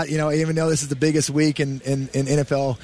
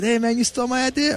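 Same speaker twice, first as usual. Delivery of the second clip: playful accusation; 10 semitones higher than usual. Retold or imitated. Greeting friend, teasing accusation.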